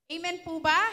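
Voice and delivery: loud call to the congregation; calling out amen. Real, not acted. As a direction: rouse the church for an amen. (malakas na tawag ng amen)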